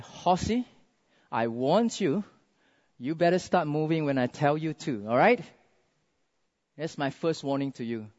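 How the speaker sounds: quiet, controlled warning; mild mock scolding. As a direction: softly lay down the law to a horse. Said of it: "started scolding the horse".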